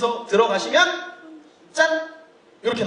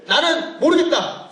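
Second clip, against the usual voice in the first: voicing unsure attendee; 6 semitones higher, slower than usual. Polling audience, voicing confused attendees.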